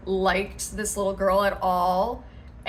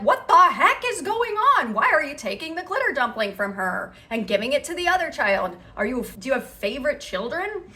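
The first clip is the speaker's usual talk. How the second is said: outraged commenters; 5 semitones higher, 3 dB louder, faster than usual. Retold or imitated. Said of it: "People are like".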